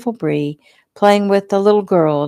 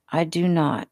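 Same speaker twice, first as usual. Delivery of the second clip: groggy; 4 dB quieter than usual. Acted. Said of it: "she said groggily".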